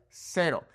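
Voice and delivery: cero with a sharp snake-like s; hissing S. Shown as a demonstration. Teacher modeling the Mexican S. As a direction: hiss the s in cero. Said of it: "like a snake".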